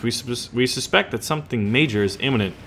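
light mock German accent; terrible German accent. Warning of something imminent, light German accent. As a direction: give the briefing a put-on German accent. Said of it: "terrible German accent".

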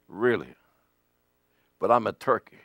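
mock timid turkey protest; doubtful mumble. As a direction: answer like someone who feels small. Doubting reply to the angel.

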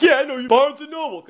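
high-pitched imitation of the guard; mock-hostile guard. Guard reminding a stranger where they met, mock hostility. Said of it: "And he's like".

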